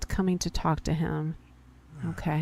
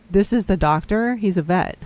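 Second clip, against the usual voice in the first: louder, incredulous double take; surprised; 7 dB louder than usual. Real, not acted. Learning the town doctor is a vet, loud surprise. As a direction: caught off guard, voice jumps up.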